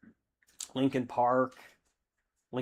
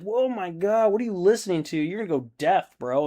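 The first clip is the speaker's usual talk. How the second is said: incredulous; 6 semitones higher than usual. Retold or imitated. Scolding friend about loud music.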